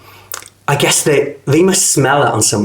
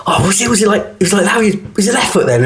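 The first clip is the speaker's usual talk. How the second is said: higher-pitched imitation of confused students; unsure dancers; 8 semitones higher, faster than usual. Struggling students asking each other about the routine, unsure. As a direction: mimic puzzled dancers checking the steps.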